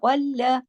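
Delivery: गल्ला with a thick ghain and a doubled lam; गल्ला said heavy, lam held on the shadda. Shown as a demonstration. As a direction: recite गल्ला full-mouthed, lam doubled. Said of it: "मोटा पढ़ेंगे".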